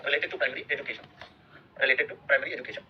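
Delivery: each word drawn out slowly for notes; slow, deliberate dictation pace. Shown as a demonstration. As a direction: dictate it slowly so they can write. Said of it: "teacher dictating a term".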